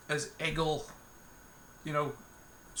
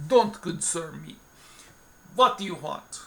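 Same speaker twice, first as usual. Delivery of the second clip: gruff bartender; 4 dB louder than usual. Acted. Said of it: "excuse any really poor accents".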